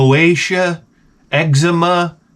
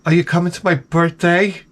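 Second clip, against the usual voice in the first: lightly voiced, higher-pitched coworker; a mild imitation of her asking; young coworker; 5 semitones higher than usual. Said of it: "she says to me".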